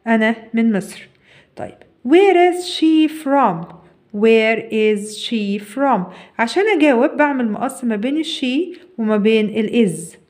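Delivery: ordinary talk, nothing marked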